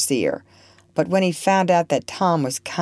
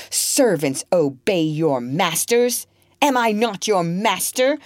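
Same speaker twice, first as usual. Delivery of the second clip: angry master; 4 semitones higher than usual. Acted. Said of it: "roared Legree".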